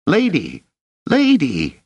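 high, urgent squeal of a call; squeaky yell for help at a door; squeaky shout. A narrator's reading. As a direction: shout it high like an excited boy. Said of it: "shouting in a squeak".

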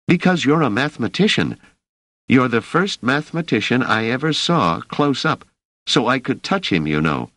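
put-on a young man in awe of a mathematician; eager young worker. Emeril voiced by narrator.

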